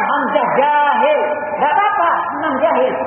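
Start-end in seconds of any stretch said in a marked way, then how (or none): 0.1-1.2 slow, deliberate. Retold or imitated.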